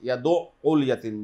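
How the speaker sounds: ইয়াদুউল with the sound stopped short; faulty ইয়াদুউল; wrong pronunciation. Shown as a demonstration. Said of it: "এটা ভুল উচ্চারণ।".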